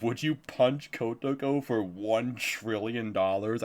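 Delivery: slow, drawn-out mock dare; hammy social-media challenge; exaggerated challenge question. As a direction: overdo the question, word by word. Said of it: "in this really, really exaggerated way".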